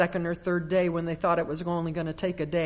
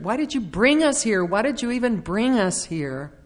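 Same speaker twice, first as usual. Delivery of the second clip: higher, whiny mock complaint; pitched-up mock whine of the hungry crowd; whining complainers; 4 semitones higher than usual. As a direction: act out a crowd of grumbling people. Voicing the complaining Israelites.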